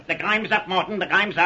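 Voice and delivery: high, gleeful, laughing through the words; laughing triumph. Acted. Sergeant crowing at the caught murderer, laughing. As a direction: gloat with a laugh as you pin him.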